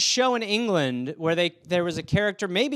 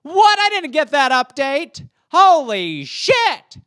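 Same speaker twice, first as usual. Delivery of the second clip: loud, much higher gasping disbelief; shocked excitement; 7 semitones higher, 6 dB louder, slower than usual. Retold or imitated. Kid shocked by a new Twister update, loud and high. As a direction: freak out over the new color. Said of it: "It's like".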